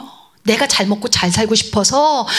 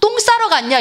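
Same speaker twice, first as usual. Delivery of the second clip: high-pitched crude taunt; mocking; 9 semitones higher than usual. Elijah taunting the prophets of Baal, mocking. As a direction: jeer at them in a raised pitch. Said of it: "엘리야가 막 조롱을 합니다".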